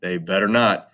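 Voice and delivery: low, warning mock god voice; Helios. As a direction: Helios warning about his cows, low. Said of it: "And Helios is like".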